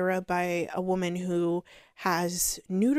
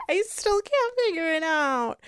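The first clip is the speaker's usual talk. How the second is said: higher, dim mock voice; whiny clueless impression; mocking Feyre; 9 semitones higher than usual. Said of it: "she's like".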